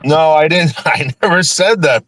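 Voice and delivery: laughing through it, high; laughing denial. Real, not acted. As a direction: laugh it off while denying.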